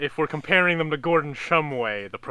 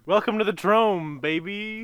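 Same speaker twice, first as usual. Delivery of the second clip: hype announcer; 7 semitones higher, 5 dB louder than usual. Pretend. Hype catchphrase.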